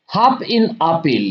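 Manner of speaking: very slow, deliberate line-by-line reading; slow poem reading. Acted. Teacher reading the poem lines to students, slow and deliberate. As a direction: read each phrase slowly so students can follow.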